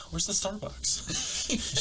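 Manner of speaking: a lightly voiced city girl asking a Texan where the Starbucks is, high and slow; mock girl with green hair. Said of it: "she goes".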